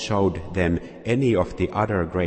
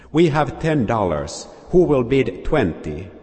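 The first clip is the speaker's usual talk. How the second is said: higher, louder call for a bid; auctioneer calling out; 5 semitones higher, 5 dB louder than usual. Acted. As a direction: push the crowd for a higher bid.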